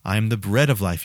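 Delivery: preacher quoting Jesus to the congregation, slow and low; voicing Jesus. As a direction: let each promise land slowly. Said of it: "he's the one who says".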